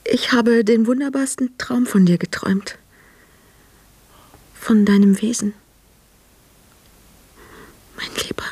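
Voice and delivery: whispered dream confession to a lover. Acted. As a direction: breathe it, barely voiced. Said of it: "Sprich ein bisschen lauter".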